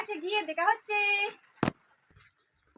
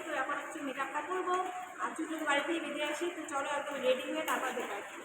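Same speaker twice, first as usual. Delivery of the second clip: hushed and softer, keeping it down in class; speaking softly; 2 semitones lower, 8 dB quieter than usual. Real, not acted. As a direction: talk softly so the teachers won't hear. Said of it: "এখানে আমি খুবই আস্তে আস্তে কথা বলছি". (নিচু গলায় আস্তে আস্তে কথা বলা)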